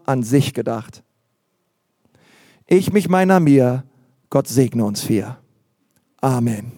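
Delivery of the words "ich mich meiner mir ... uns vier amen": lightly intoned selfish little prayer; mock prayer. Preacher mimics the congregation praying only for themselves, mock-solemn prayer. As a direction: let it sink low and slow like a mock blessing. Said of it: "jeder betet dieses Gebet".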